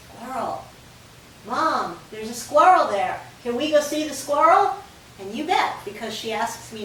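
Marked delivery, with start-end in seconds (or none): 0.1-4.7 the dog politely begging, louder toward the end; eager dog voice. Pretend. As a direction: voice the excited dog asking to see the squirrel. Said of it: "she goes".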